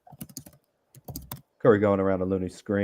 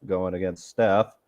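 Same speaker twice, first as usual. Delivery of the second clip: lively play-by-play call; frantic mock sports commentary; slower than usual. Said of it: "do a little play-by-play while I watch".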